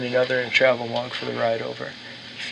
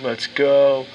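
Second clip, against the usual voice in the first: calling out; 6 dB louder than usual. Acted. Friend calling up the stairs.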